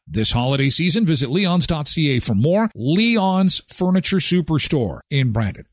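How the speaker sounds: upbeat announcer read of a sponsor spot; bright host ad read; radio ad read. Acted. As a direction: sell it like a local radio ad. Host reads sponsor ads.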